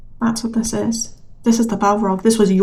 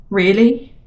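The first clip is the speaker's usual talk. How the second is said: scornful disbelief; 2 semitones higher than usual. Retold or imitated. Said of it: "That's what they're saying".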